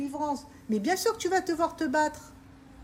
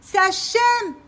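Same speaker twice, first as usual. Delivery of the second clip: louder, rising emphasis on Hachem; insistent repeat; 5 semitones higher, 7 dB louder, much slower than usual. Real, not acted. Preacher insisting to the women, raised voice. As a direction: hammer the name home twice.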